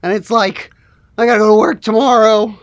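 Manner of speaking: easygoing slacker griping about the job; chatty, put-upon shop worker; lightly voiced weary worker. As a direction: grumble lightly like a tired employee. Plays a weary shift worker.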